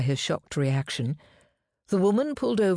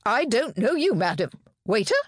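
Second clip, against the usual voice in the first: high, agitated denial, then calling out; panicky, raised-pitch indignation; shrill protest; 6 semitones higher, 3 dB louder than usual. A narrator's reading. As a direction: protest shrilly and call for help. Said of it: "John's voice was shrill".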